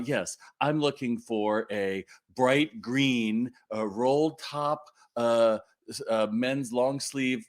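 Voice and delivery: slow, drawn-out mock customer listing every detail; a hint of an overly precise shopper, slowed right down. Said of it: "people are gonna walk in and tell you".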